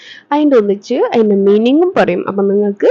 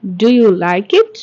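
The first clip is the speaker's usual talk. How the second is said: very slow and deliberate; slow model sentence; much slower than usual. Shown as a demonstration. Teacher models the sentence slowly for students to repeat. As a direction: stretch every word for learners to copy. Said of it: "Repeat after me".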